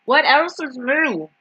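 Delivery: slow, weary sarcastic repeat; sarcastic drawn-out sigh. Shown as a demonstration. Streamer sighs at viewers, slow and sarcastic. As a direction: drag it out like you've heard it all.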